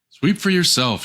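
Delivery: high, scornful snap; rude retort. Acted. Rude daughter snaps at the dwarves, high and scornful. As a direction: throw it back at them. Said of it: "she answered".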